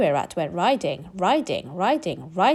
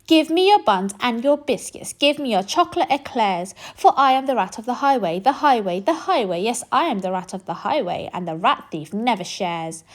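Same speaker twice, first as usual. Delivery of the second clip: greedy rat robber; 2 semitones higher than usual. Acted. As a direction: bark the list like a bully. Rat demands sweets.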